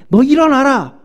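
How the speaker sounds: high, loud rousing order; captain's shout. Retold or imitated. Ship captain shouting at sleeping Jonah, loud rousing command. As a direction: yell him awake like a ship captain. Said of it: "선장이 육 절에".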